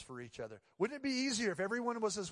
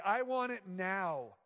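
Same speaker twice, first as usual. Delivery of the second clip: put-on slow, louder, drawn-out childish demand; mock demanding whine; 3 semitones higher, 5 dB louder, much slower than usual. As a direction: stretch it out like a spoiled kid. Mocking the demanding self.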